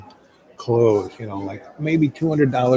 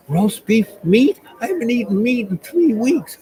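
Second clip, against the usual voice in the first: thrilled; 10 semitones higher than usual. Retold or imitated. Girlfriend thrilled by food offer.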